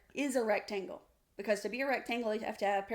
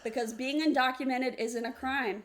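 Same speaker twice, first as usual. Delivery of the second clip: insistent, a little louder; raised voice; 3 semitones higher, 4 dB louder than usual. Real, not acted. Correcting a debate opponent, raised voice. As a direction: raise your voice slightly to press the point. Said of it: "You just raised your voice at me".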